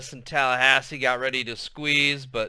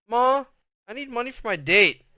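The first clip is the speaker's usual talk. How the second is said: a hint of a pestering teen, higher; nagging teen; 10 semitones higher, 4 dB louder than usual. A narrator's reading. Teen daughter hounding her mother for date money, nagging. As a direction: pester your mom for cash. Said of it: "with Montana dogging her".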